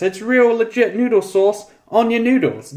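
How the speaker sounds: high, slow, thrilled over the real sauce; excited. Acted. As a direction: stretch out real legit noodle sauce in delight. Excited repeat of the praise.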